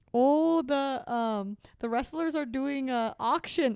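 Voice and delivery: put-on Canadian accent. Recalling an episode done in canadian accents: put-on canadian accent. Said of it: "we did a whole episode in Canadian accents".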